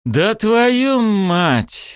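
slow, high breathed-out curse; trapped player groaning at the news; exhaled curse. A narrator's reading. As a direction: let it out on a long breath. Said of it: "выдохнул я".

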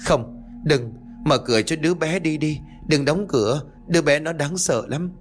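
high, desperate begging; frantic pleading. Acted. Ngọc begging her mother-in-law, terrified. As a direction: plead as if the ghost is at the window. Ngọc begs to keep window open.

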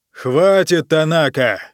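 sharp loud shout to silence him; angry bark. Acted. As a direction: snap the name like an order. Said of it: "рявкнул император".

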